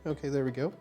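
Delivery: normal talking voice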